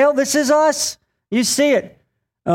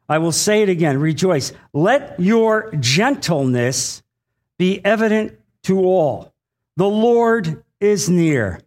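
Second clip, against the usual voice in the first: scripture reading. Acted. Reads scripture aloud.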